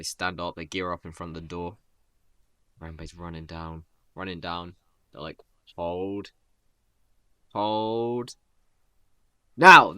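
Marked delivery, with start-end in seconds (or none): 5.8-9.9 held-back "hold" building to a shouted "now"; acted battle command. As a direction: draw out each hold, then burst out loud on the cue. Acted command before jumping aside.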